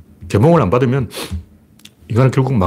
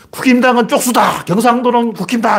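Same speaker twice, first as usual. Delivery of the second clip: a hammed-up rally cry, pitched high; mock campaign slogan; 10 semitones higher than usual. Commentator mocking a party's regional slogan, high mock chant. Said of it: "이렇게 써붙이라고".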